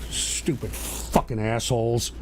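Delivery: slow, soft, low-pitched contempt; low angry cursing. Real, not acted. Streamer cursing chatters after his tirade, low and slow. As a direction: curse them under your breath.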